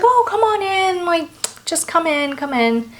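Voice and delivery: high, gushing invitation; a lightly voiced fussing hostess; eager welcoming hostess. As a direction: sweep them inside, overly eager. Welcoming old lady voiced.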